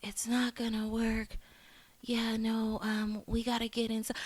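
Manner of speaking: hushed mock-fearful whisper; imitated whisper. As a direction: whisper it like a scared woman in an ambulance. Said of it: "But her going".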